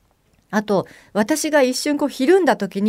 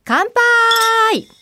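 hearty toast; 13 semitones higher, 4 dB louder than usual. Acted. Toast to the couple's meeting.

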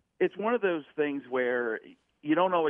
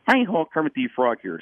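light Kermit puppet voice, a bit higher; Kermit the Frog; 4 semitones higher, 4 dB louder than usual. Retold or imitated. Showing the unlocking voice, a light Kermit. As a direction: hi ho, a quick Kermit the Frog impression. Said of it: "start with Kermit the Frog".

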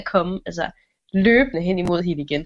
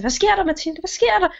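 alarmed mother; 9 semitones higher than usual. Acted.

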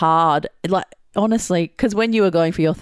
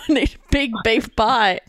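put-on higher, demanding little girl voice; bossy child; 5 semitones higher than usual. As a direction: bark orders like a spoiled toddler. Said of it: "She's barking out orders going".

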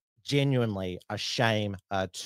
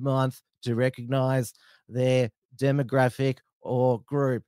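put-on broad Australian accent; 2 semitones higher than usual. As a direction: read it like a broad-accented bogan. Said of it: "How was my, uh, Bogan accent".

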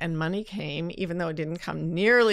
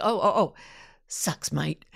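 imitated Australian commiseration, falling away; Australian accent. Speaker trying her friend's way of sympathising, in Australian accent. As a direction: fumble into a mock Australian accent. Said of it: "Just do the Australian thing".

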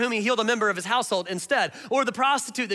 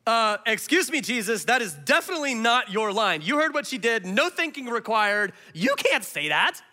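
shocked audience; 2 semitones higher than usual. Retold or imitated. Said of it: "anybody in the audience is going".

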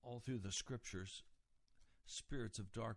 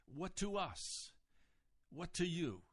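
higher-pitched disapproving challenge; indignation; 5 semitones higher than usual. Retold or imitated. Unclean spirit challenges Jesus with disapproval, indignant. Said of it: "is an expression of indignation".

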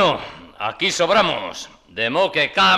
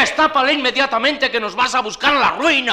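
angry order; 5 semitones higher than usual. Acted. Ordering him to uncover it.

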